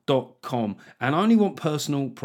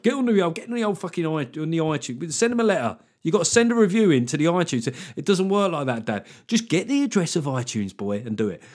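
exasperated scolding; 4 semitones higher than usual. Acted. Scolding a listener's technophobe dad.

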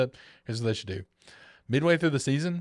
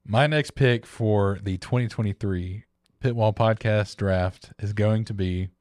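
announcer voice; 2 semitones lower than usual. Acted. Formal draft pick announcement.

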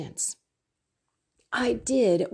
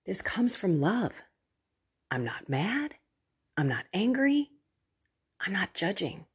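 gentle reassurance; 4 dB quieter than usual. Shown as a demonstration. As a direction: reassure them you're not mad. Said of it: "you've started it with".

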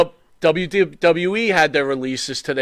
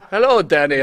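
put-on English accent; 3 semitones higher, 3 dB louder than usual. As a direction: put on a playful English accent to greet her. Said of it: "break out my English accent".

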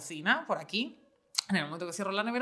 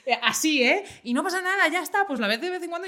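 lightly higher, breezy brush-off; lightly voiced reassuring mother; 5 semitones higher, faster than usual. Mother telling scared daughter it is fine, lightly imitated nonchalance. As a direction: play mum waving the fear away.

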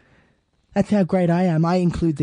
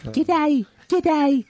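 mock g'day; 11 semitones higher than usual. Shown as a demonstration. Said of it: "mocking the greeting".

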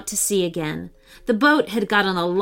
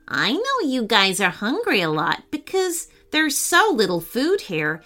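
cat voice. Acted. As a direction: talk like a perky cat. Cat Lola's voice.

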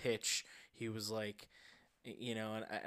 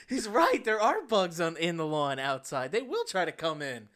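high, loud, hammed-up alarm easing off; mock conviction; 4 semitones higher, 8 dB louder than usual. Retelling how he believed the bug pitch, mock conviction. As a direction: play a gullible customer suddenly convinced. Acts out being sold by pitch.

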